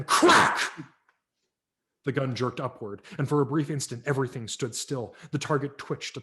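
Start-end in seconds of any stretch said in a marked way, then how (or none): 0.0-0.6 louder, punchy crack; sharp sudden exclamation. A narrator's reading. Gunshot narrated.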